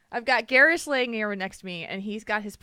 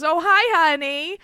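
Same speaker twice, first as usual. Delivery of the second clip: put-on higher, sweet old grandma calling to check in; grandma on the phone; 10 semitones higher, 7 dB louder than usual. Imitating grandma phoning about a heart problem, sweetly. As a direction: play the fussing grandma, sing-song and caring. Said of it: "every time she goes".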